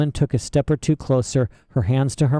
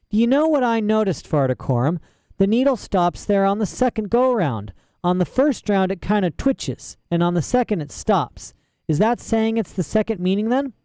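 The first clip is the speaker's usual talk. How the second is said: put-on higher, eager young girl; a curious girl puzzling it out; young girl Lyra; 8 semitones higher than usual. A narrator's reading. Lyra asks the old man, curious and eager.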